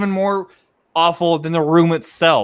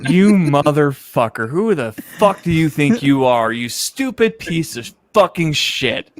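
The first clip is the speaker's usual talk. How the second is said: mock insults; slower than usual. Mock insult round after fake rage.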